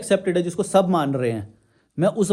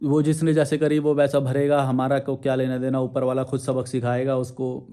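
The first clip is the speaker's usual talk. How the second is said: mock serene tone; 4 semitones lower than usual. Shown as a demonstration. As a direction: fade into saintly calm, mocking. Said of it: "ऐसे बोलूँ मैं".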